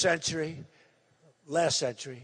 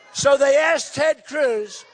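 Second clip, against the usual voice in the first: ordinary delivery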